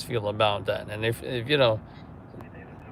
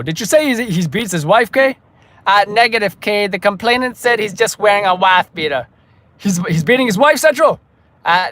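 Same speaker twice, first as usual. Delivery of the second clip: loud, higher radio-call delivery; police radio officer; 8 semitones higher, 11 dB louder than usual. Acted. Officer reporting a jumper to central, loud radio-call voice.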